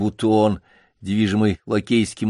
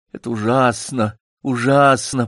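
стон; 2 semitones higher than usual. Acted. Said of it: "простонал Такса".

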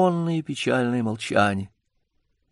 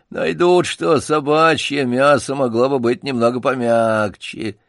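циничная насмешка. Acted. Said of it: "мрачной и циничной насмешкой".

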